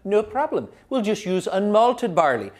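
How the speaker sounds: mock-innocent Irish shrug; cheeky Irish reply. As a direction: shrug it off like nothing's wrong. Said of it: "the Irish were like".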